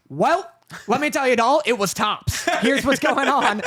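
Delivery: old-timey fake cheer; breezy old-fashioned charm; fake cheery. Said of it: "false happy mode".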